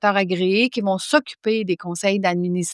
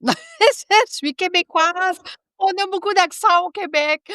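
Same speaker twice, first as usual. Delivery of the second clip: much higher, laughing self-consciously; laughing apology; 9 semitones higher than usual. Real, not acted. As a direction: giggle it out, sheepish about the accent. Laughs apologizing for her accent.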